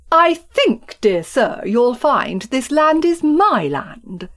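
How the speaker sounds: slow, lofty put-down; condescending. Acted. Farmer Town patronising his neighbour, lofty and slow. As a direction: talk down to him politely. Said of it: "condescended Farmer Town".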